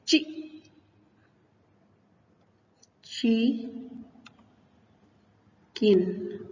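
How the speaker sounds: "ची", "किन" each said alone with long pauses; teacher slowly breaking the word into "ची" and "किन"; syllable by syllable. Shown as a demonstration. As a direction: sound out "ची" and "किन" as separate syllables. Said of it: "दो syllable आ गए".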